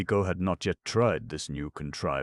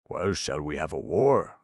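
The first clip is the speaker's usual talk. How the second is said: grumbling; 5 dB louder than usual. Acted. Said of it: "grumbled Goof".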